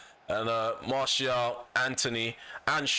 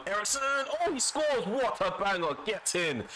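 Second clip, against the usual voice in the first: big high shout of joy as the ball goes in; goal celebration; 10 semitones higher than usual. Real, not acted. Gamer celebrating his late goal, high excited shout. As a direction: yell it out, pitch soaring over the goal.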